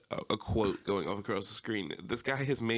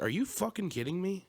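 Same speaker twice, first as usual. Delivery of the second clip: pitched well up in mock outrage; retold angry outburst; 9 semitones higher than usual. Retelling snapping at the drive-through worker, mock outraged. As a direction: replay your disbelief at the window, half-acted. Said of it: "I got pissed".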